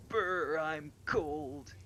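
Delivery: high, loud shivery brr; shivering with cold. Retold or imitated. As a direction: shiver as if freezing. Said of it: "like someone would do in a big shiver".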